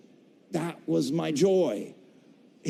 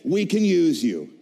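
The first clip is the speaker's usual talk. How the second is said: quoted verdict; 5 dB louder than usual. Retold or imitated. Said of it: "they said".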